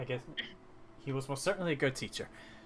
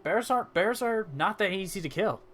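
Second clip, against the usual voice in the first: higher-voiced, lightly acted admiration; mildly impressed; 8 semitones higher than usual. Barkeep hears of bear meat for sale, mildly impressed. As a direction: coo with a touch of awe, pitched up.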